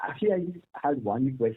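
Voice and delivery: faint, distant speakerphone voice. Real, not acted. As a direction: speak from across the room. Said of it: "kindly use your handset".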